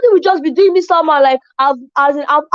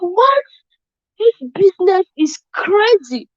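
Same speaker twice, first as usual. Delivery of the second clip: high pitched cry of disbelief, then slower; amazed outburst; 5 semitones higher, slower than usual. Retold or imitated. Recalling her first five sales on the spot, amazed. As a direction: squeal at the sudden sales.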